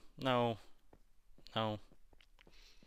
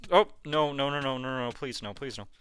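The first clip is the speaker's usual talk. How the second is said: panicked pleading; 2 semitones higher, 4 dB louder than usual. Real, not acted. Witch attacking in game.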